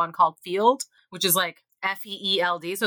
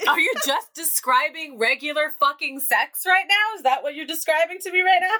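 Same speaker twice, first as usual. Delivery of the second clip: incredulous; 6 semitones higher than usual. Retold or imitated. Acted disbelief at date's answer.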